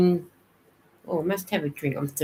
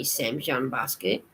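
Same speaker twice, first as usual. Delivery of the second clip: Sam Jam Basket said softer, lower and slow; quiet repeat; 4 semitones lower, 6 dB quieter than usual. Real, not acted. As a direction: murmur Sam Jam Basket to yourself as you settle it. Repeats the chat name.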